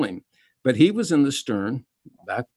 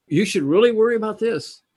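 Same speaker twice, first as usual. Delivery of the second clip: high, loud alarmist newscaster; mocking the evening news, breathless alarm; mock news anchor; 5 semitones higher, 4 dB louder than usual. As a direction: hype up the fear like TV news. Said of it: "the first fifteen minutes is".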